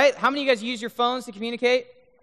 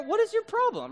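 incredulous; 13 semitones higher than usual. Acted. Baffled at the yelling man.

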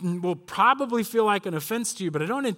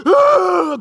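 loud, high imitated panic scream; high-pitched shriek of mock panic; 11 semitones higher, 12 dB louder than usual. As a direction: scream like fleeing freshmen. Imitates freshmen screaming while fleeing.

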